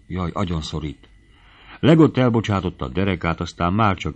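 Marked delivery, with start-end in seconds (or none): 0.1-1.1 soft, faintly breathless protest; dreamy panting. A narrator's reading. Girl held tight by her dance partner, dreamily panting. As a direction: protest gently, half in a dream. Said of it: "lihegte a lány ábrándosan".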